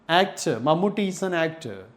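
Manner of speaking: "actor" ending in an open "uh"; silent final R. Shown as a demonstration. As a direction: say "actor" as "act-uh". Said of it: "The last R sound is not using".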